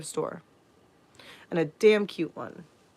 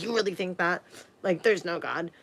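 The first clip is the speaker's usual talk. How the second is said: softer, sneering put-down; condescending; 5 dB quieter than usual. Retold or imitated. Stepdad belittling a child's belief in God, condescending. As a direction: talk down to a small child. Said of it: "he was talking to me condescending".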